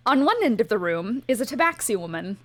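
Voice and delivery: measured game master narration; scene setting. Acted. Game master opening the session for the players, scene-setting narration. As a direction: read out the scene with deliberate phrasing.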